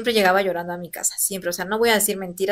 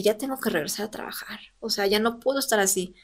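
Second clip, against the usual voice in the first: susurro; 6 dB quieter than usual. Retold or imitated. Decisión interna, se dice a sí misma.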